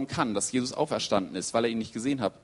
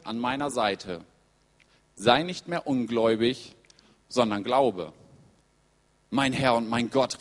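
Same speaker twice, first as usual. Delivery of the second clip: measured story narration with spaced phrases; scripture reading. Acted. Preacher reading how Jesus meets Thomas, deliberate scripture reading. Reads the Bible text aloud.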